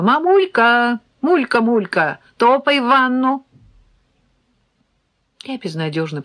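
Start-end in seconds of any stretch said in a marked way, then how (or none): 0.0-3.5 high, loud call down the hall. A narrator's reading. Daughter calling the dog off to the bath, loud call. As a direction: call the pug from another room. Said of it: "и крикнула".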